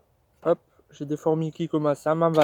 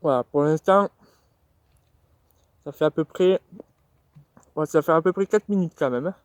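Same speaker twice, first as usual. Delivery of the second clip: chewing while talking. Real, not acted. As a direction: mouth full of nuggets. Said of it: "vous allez m'entendre manger des nuggets".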